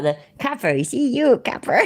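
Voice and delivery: mock American gangster accent, half-remembered; awful American accent. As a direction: attempt a bad American accent. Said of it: "My American accent's awful".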